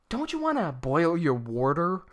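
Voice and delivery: slow, light imitation of an Indian accent; retelling a coworker's Indian-accented question, slowly; imitating Indian accent. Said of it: "she adopted the accent".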